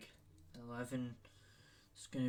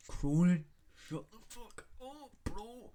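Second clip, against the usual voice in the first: high squeaky voice telling a mate off; high mocking yell at his mate Cronin; mock shout at friend; 8 semitones higher than usual. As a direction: pitch it way up and tell Cronin to shut it.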